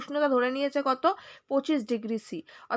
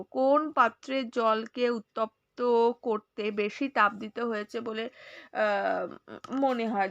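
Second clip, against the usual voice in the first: slow, careful second reading for the class; slow reread; 4 semitones lower, slower than usual. Shown as a demonstration. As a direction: read it again slowly, word by word. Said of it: "আরেকবার পড়বো".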